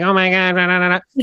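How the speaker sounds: high-pitched mock-annoying voice. Shown as a demonstration. Coach showing client how to read their story, annoying voice. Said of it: "in an annoying voice".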